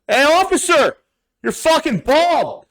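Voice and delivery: put-on drunken heckle. Drunk him heckling the bald officer, high loud taunt. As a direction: taunt the cop like a drunk fool.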